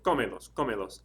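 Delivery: "cómelos" stressed on the first syllable. Shown as a demonstration. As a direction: punch the CÓ in "cómelos". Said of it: "accent over the O".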